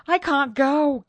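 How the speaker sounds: high, loud, distressed protest; frightened refusal. A narrator's reading. Terrified maid refuses to go along, high and distressed.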